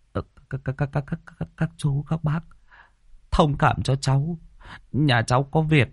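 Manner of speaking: put-on stammering scared young man. A narrator's reading. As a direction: stumble over each word in fright. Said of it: "Thằng Nôm mặt tái dại".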